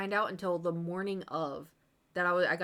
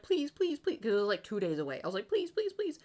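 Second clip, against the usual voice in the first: begging; 3 semitones higher than usual. Retold or imitated. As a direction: beg like a desperate fan. Begging to sign up.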